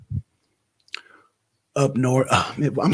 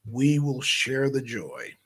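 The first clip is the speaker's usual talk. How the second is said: a quieter, settled repeat of the line; softer echo; 6 dB quieter, slower than usual. Shown as a demonstration. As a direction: repeat "we will share the joy" softer, like an afterthought. Echoing his own line more softly.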